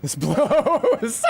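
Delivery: high, far whining voice; whiny complaint. Pretend. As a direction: whine it like a sulky kid.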